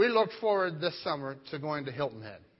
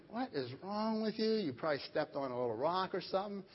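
dismissive dad; 2 semitones higher, 7 dB quieter than usual. Retold or imitated. Brushing off his screaming daughter.

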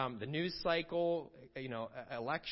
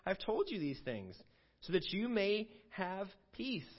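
scripture reading; 4 semitones higher, slower than usual. Shown as a demonstration. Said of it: "He says in verse thirty-three".

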